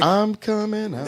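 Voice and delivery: high, slow mock villain voice; a mocking high-pitched villain.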